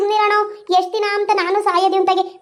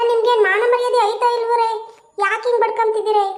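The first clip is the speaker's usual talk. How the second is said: higher-pitched indignant telling-off; scolding; 4 semitones higher than usual. Acted. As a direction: scold a squabbling couple as their elder. Elder scolds the quarrelling couple. (ಗದರಿಸಿ ಬೈಯುವ ದನಿ)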